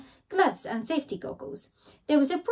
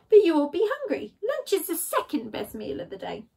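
worried Skunk; 5 semitones higher than usual. Acted.

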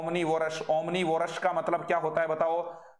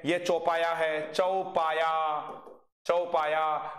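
slow drill word; much slower than usual. Shown as a demonstration. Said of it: "teacher models word".

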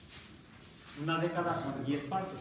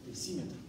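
decímetro with the stress on the second syllable, cí; teacher shows stress on the í of decímetro; 5 dB quieter, faster than usual. Shown as a demonstration. Teacher shows the class where the stress falls. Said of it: "le pongo acento en la I".

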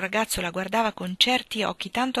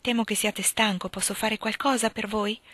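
gently offering help; timid but tender; 3 semitones higher than usual. Acted. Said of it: "col suo tono timido ma affettuoso".

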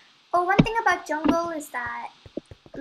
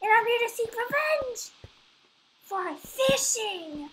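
slow, menacing villain declaration; slow theatrical villain menace; 3 semitones higher, slower than usual. Pretend. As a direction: drag it out like a gloating villain. Spider villain continues the act.

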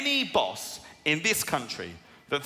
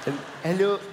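put-on Irish Indian accent; 3 semitones higher than usual. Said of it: "Irish Indian".

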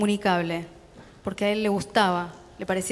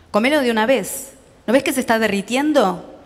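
louder, impatient scolding; angry father; 3 semitones higher, 5 dB louder than usual. Acted. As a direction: snap at the boy to eat it now. Father scolding child over ice cream.

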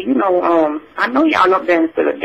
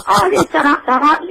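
laughing ta-da; 7 semitones higher than usual. Real, not acted. Playful showing her bus stop dance.

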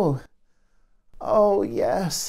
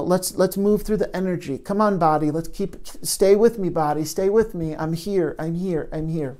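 nurturing gentle nudge. Shown as a demonstration. Therapist coaxing her own body to stay present, gentle and nurturing. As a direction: gently nudge your body to stay with you, fading to a hush. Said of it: "a nurturing, gentle nudging".

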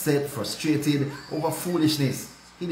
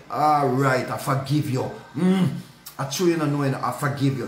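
grudging forgiveness. Shown as a demonstration. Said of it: "No, that's not mercy cheerfully".

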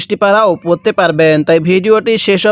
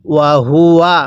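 slow, drawn-out tajweed chant; Quran recitation; much slower than usual. Shown as a demonstration. Teacher recites the verse for students, slow tajweed chant. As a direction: intone each syllable slowly like a reciter. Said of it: "কিভাবে পড়ব?".

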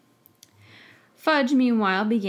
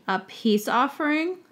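rising, higher squeak on "offering"; squeaking in disbelief; 6 semitones higher, 3 dB louder than usual. A narrator's reading. Professor squeaks in disbelief at the minister's plan. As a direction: let "offering" crack up high in shock. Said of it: "his voice squeaked on the last syllable".

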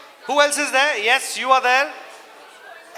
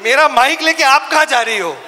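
laughing; 2 semitones higher, 8 dB louder, much faster than usual. Real, not acted. Fan walks off with mic.

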